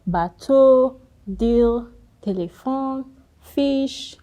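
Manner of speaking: bateau, deal, téléphone, fiche, garage said high and loud as models; teacher modelling French words; French demo words. Shown as a demonstration. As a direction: call out each French word clearly. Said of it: "Consonants are pronounced as you see them".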